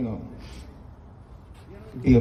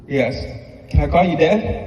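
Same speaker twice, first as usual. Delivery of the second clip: put-on light, higher childlike voice, louder; voicing a small child; 3 semitones higher, 3 dB louder than usual. Stepdad quoting his young son asking to call him Dad, hopeful childlike voice. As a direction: ask it like a hopeful little boy.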